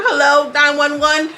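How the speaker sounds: high, slow pretend distress call; mock emergency call. Pretending to phone for help over a broken nail, mock distress. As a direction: stretch it out in hammed-up urgency.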